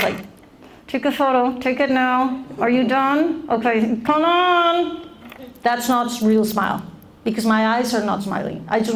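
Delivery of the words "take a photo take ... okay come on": mock-impatient posing for a photo; impatient photo pose. Shown as a demonstration. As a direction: hurry the photographer along, mildly annoyed. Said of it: "my photograph face".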